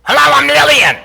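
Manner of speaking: put-on high, loud old New York yell of a greeting; Lillian's yelling voice. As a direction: belt it out like someone who had to yell to be heard. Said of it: "she would speak like this".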